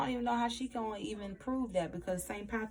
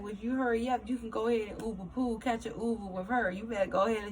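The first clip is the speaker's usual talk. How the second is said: raised, louder, quick dismissive quote; mock brush-off; 3 semitones higher, 4 dB louder, faster than usual. Retelling how he dismisses Cassandra, mock brush-off. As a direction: shoo her out the door.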